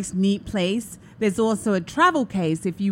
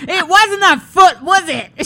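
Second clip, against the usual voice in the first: higher, much louder, laughing; slow, knowing laughing jab; teasing through laughter; laughing tease; 10 semitones higher, 10 dB louder, slower than usual. Retold or imitated. Grown girl teasing Noreen.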